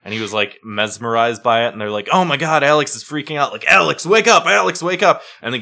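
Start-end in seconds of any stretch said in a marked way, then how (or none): 2.1-3.5 raised, louder panicked onlooker quote; mock alarm. 3.5-5.2 high, loud mock-panicked calling out; imitated urgent shout. Onlookers shouting to rouse him.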